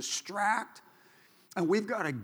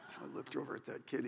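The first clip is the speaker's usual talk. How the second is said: fast hushed whisper; secretive whispered aside; 4 semitones lower, 13 dB quieter, faster than usual. Acted. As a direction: lean in and whisper it. Conspiratorial aside in the story.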